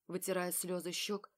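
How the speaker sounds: ordinary delivery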